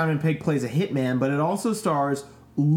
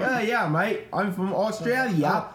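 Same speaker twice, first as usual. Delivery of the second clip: put-on light Australian accent, Hugh Jackman style; a mild Aussie take on Hugh Jackman; 7 semitones higher than usual. A friend mimics Hugh Jackman answering a fan, light Australian accent. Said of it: "That is a dead on Hugh Jackman impression".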